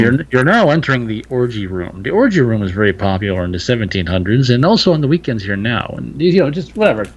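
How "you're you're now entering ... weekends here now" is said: deadpan museum narrator voice, quicker on the long line; mock audio tour guide. Joking to cohost with a fake audio tour guide voice. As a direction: spoof a mansion audio guide. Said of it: "replace the audio tapes with, like, your own".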